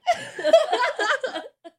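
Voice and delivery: loud, high real laugh breaking out mid-reading; laughing out loud at the story; burst of laughter. Real, not acted. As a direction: crack up at your own line. Reader cracks up at own line.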